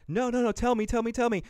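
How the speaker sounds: high, begging please tell me; pleading girl. Retold or imitated. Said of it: "and she's like".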